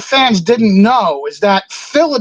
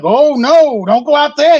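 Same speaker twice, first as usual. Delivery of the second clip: raised, slightly louder mock alarm; retold urgent warning; 5 semitones higher, 3 dB louder than usual. Security stopping a wrestler leaving for his car, urgent warning. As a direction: warn him off, as retold.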